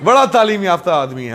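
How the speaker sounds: deep, awed admiring onlookers with a laugh; impressed people. Retold or imitated. Mocking how people praise anyone who speaks English, in a deep awed voice. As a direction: play the dazzled crowd praising a learned man. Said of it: "लोग".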